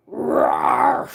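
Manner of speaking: very low, loud roar; dog roar. Acted. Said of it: "exclaimed the watchdog".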